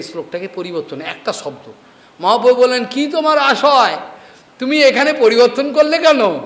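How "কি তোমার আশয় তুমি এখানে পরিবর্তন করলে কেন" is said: raised-pitch mock interrogation; retold questioning. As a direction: press him for his reason, voice lifted. Acts out Mahaprabhu questioning his disciple. (উঁচু সুরে জেরার অভিনয়)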